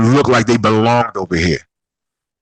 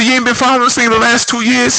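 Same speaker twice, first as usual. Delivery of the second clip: high, disbelieving challenge; can't believe what he's hearing; high mocking disbelief at a fan; incredulous retort; 12 semitones higher than usual.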